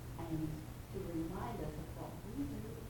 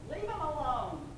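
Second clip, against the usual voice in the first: "Leave" pitched high and falling, a raised firm command; firm yelled order; 8 semitones higher, 6 dB louder than usual. Retold or imitated. Disciple telling the others not to wake Jesus, firm raised call. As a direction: say "Leave him alone." as a higher, firm shout that settles it. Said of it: "someone else yells".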